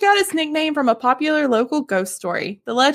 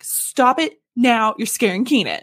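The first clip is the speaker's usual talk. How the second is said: firm mom. Retold or imitated. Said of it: "My mom was like".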